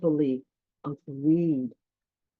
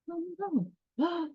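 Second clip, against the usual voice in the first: mock dismay; 11 semitones higher, 4 dB quieter than usual. Dramatic storytelling suspense.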